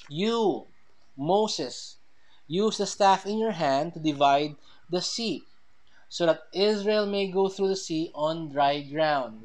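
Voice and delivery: YOU set apart and stressed, then a pause; emphatic reading with YOU standing alone. Shown as a demonstration. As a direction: lean on "You, Moses" as the one addressed. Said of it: "it would read this way".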